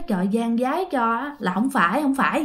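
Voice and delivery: soft, murmured plea to the heavens; hushed prayer. Acted. Brother praying with hands joined, soft and pleading. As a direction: pray under your breath that it isn't true.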